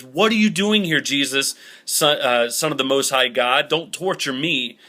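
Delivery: mock the demon crying out at Jesus, fading after the first words; demon yelling. Demon yelling at Jesus from the shore, a retold yell. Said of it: "he yells out to them".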